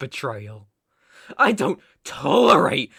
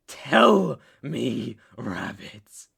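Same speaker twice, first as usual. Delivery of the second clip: forceful order; 5 semitones lower, much slower than usual. Acted. Captor demands an answer from rabbit, forceful order.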